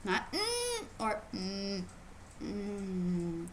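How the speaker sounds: pouting closed-mouth hums; mock grumpy hums; mock frown hums. Shown as a demonstration. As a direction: hum like you're sulking.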